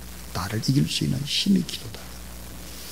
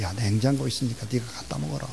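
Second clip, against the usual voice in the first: gentle; 7 dB quieter than usual. Acted. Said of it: "아빠가 부드럽게 이렇게 말했어요".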